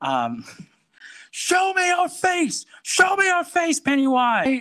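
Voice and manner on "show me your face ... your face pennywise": furious, very high-pitched angry screaming. Retelling angrily screaming in a dark doorway in a dream: retelling an angry scream. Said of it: "I just start screaming".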